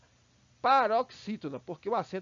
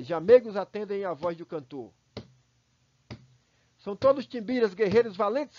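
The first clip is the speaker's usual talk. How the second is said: epic poem reading; 4 dB louder than usual. Acted. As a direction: declaim like a narrator of battle. Reads epic verses aloud. (declamação épica crescente)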